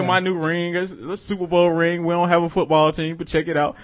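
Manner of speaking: lightly done mock Russian accent, boastful; bad Russian accent. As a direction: show off in a comic Russian accent. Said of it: "That's a terrible Russian accent".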